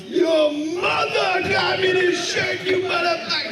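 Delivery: going crazy. Retold or imitated. Public access host yells at the prank caller, enraged shout. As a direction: bellow it into the camera, enraged. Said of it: "he's going crazy".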